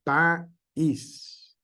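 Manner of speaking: País with the í held and stressed, pa-ís; hiatus stressed. Shown as a demonstration. Teacher repeating the example word to students. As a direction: draw out the í in País. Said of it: "que es una vocal débil".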